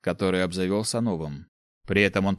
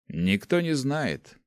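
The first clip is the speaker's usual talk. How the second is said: slow, weighty, higher dark mage line; 5 semitones higher, much slower than usual. Acted. Dark mage answering the girl, slow and heavy. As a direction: let each word hang, stress не. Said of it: "покачал головой тёмный маг".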